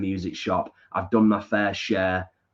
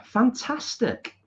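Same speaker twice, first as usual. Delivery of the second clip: drawn-out fantastic; much slower than usual. Real, not acted. Enthusing over a viewer's plans.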